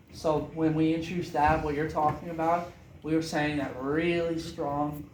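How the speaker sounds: a bit too loud, carried away. Real, not acted. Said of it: "oh gosh, I'm getting too loud".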